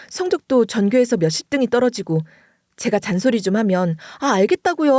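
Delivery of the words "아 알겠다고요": put-on higher, irritated teenage brush-off; sulky teen retort. Son brushing off his nagging mother, sulky. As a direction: snap it like a fed-up son. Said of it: "하면서 문을 쾅 닫고".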